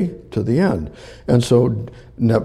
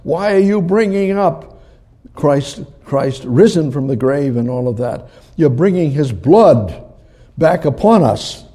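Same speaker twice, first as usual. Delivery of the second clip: high, louder protesting voice; mock yell; 4 semitones higher, 4 dB louder than usual. The Jewish people object to the apostles' preaching, raised protest. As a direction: protest it like an indignant crowd. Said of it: "are gonna yell".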